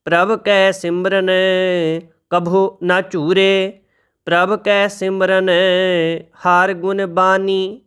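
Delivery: slow, measured reading of sacred verse; scripture recitation. Shown as a demonstration. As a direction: recite each line slowly and reverently.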